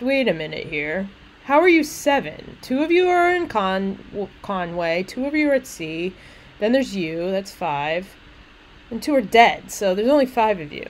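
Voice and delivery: lightly acted puzzled questioning; confused. Poet questioning the maid's count of seven, mildly confused. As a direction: count it out, not buying the sum. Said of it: "he's confused".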